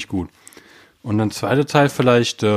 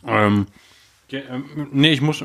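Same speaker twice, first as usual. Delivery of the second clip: talking while eating; words round a bite of food; mouth full; slower than usual. Real, not acted. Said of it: "Ich esse grad".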